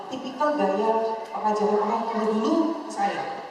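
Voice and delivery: normal talking voice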